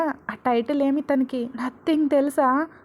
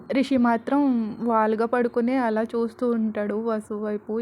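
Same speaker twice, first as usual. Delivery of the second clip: usual speaking voice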